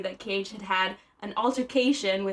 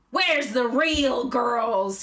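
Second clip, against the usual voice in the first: Nicolas Cage moaning; 5 dB louder, much slower than usual. Acted. Host acts Cage moaning at the dining room. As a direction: wail it out, every word stretched. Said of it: "he moaned".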